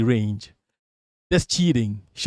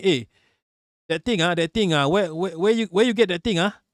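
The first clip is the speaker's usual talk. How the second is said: Malaysian English; 3 semitones higher than usual. Shown as a demonstration. Speaker showing viewers how Malaysians speak English, Malaysian accent. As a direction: slip into casual Malaysian English. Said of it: "this how Malaysians speak English".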